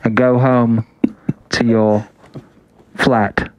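slow, hammed-up British accent; mock a British loyalist preaching; pompous mock British accent. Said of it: "I like your British accent".

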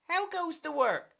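high-pitched farmer's call. Acted. Farmer calls to duck repeatedly.

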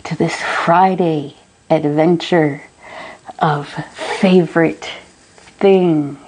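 slow, eerie haunted-house host; booming demon lord. Acted. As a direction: draw each word out like a ghostly host. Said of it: "How'd you like that entrance?".

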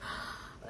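soft unvoiced gasp of shock; imitated gasp. Sister hearing the news, a soft shocked gasp. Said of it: "she was like".

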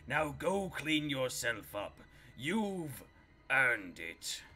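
slow, drawn-out game announcer impression; arena announcer. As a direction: read it like the tired arena announcer line. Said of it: "the arena announcer has one take".

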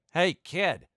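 put-on high, calling out to the kid; retold yell. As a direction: shout after him from the bike. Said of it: "They started yelling".

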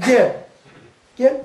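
curt angry "Gel." commands. Shown as a demonstration. Teacher shows an angry call, curt commands. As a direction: snap "Gel." like you're cross. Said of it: "Kızdığın zaman farklı".

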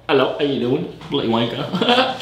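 cheeky British greeting; put-on British accent. Correcting his accent before greeting strangers, British accent. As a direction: switch into a casual British accent. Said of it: "wrong accent, not Wagwan".

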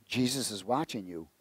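soft, hushed warning from the dark; spooky voice. Retold or imitated. A hidden voice warns the robber, softly and eerily.

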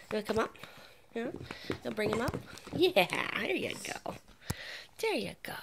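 high, loud praise for the puppy; bright loud dog praise; excited praise. Real, not acted.

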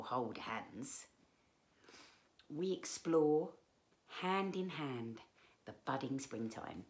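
measured picture-book reading with pauses between phrases; story narration. Acted. Reader tells children of walks with grandad, storytelling. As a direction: read gently to young children, phrase by phrase.

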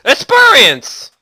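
high, slow, drawn-out Experience; mock announcer cry. Gamer hailing an XP pickup, high drawn-out mock announcer cry. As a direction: stretch the word out like a game announcer. Same drawn-out exclaim repeated.

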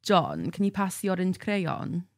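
slow, lilting Welsh practice line; lightly put-on Welsh accent. Shown as a demonstration. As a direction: demonstrate a Welsh accent, slowly. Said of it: "when we did Welsh accents".

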